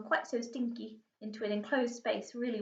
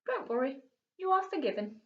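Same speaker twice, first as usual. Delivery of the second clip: chuckling; 5 semitones higher, 3 dB louder than usual. Acted. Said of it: "he chuckled".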